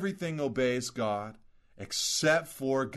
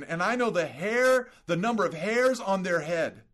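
higher, building plea from God for the city; God urging Jonah, higher and more fervent; impassioned God; 5 semitones higher than usual. Pretend. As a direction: press each question harder, pleading. God pleads for Nineveh.

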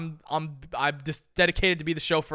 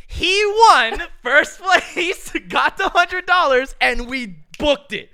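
high, loud, drawn-out triumph; excited climax; 10 semitones higher, 8 dB louder, slower than usual. Real, not acted. Telling friends Tony won the hundred dollars, excited climax. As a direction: stretch the big news out loudly. Climax of story, announcing the win.

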